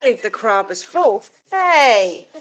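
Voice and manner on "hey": sharp hey. Real, not acted. Chicken jumping, she snaps.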